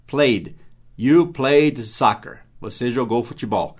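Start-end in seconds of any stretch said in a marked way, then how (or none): 0.1-2.4 You played soccer, spoken very slowly word by word; slow teaching model. Shown as a demonstration. Teacher models the plain statement slowly. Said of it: "o verbo play é jogar, e jogou no passado é played".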